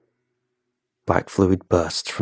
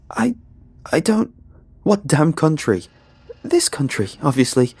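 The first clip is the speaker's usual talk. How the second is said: terrified pleading; 8 semitones higher than usual. Acted. Hiker at gunpoint begging the rangers, panicked and higher. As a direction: beg for your life at gunpoint.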